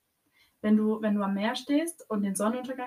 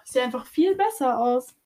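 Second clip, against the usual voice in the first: whispered boast; 3 semitones higher, 6 dB louder than usual. Real, not acted. To her co-host, joking about looking better blurry: playful whisper. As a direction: whisper it like a secret brag.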